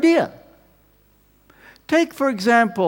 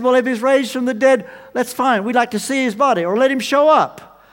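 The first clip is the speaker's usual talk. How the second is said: scornful taunt; 5 semitones higher, 5 dB louder than usual. Retold or imitated. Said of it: "They laughed him to scorn".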